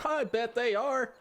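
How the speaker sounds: giggling, high and slow; laughing. Acted. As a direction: laugh through the words. Joking about the hiker.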